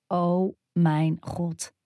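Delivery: slow, breathless oh my god; awed gasp. Acted. Stunned by his bare chest, slow breathless awe. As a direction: let it slip out, stunned and slow.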